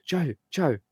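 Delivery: put-on angry Scottish accent. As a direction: bark the name in thick Scottish. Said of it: "in a really thick Scottish accent, really angry".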